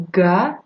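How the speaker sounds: GA with the final consonants silent; French pronunciation. Shown as a demonstration. Teacher showing the word for gloves, French pronunciation. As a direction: say GA slowly as one open French syllable. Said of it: "and we pronounce it".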